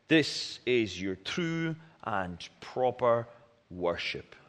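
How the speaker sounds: measured, solemn Bible reading aloud; scripture reading. Acted. Reads Romans twelve aloud.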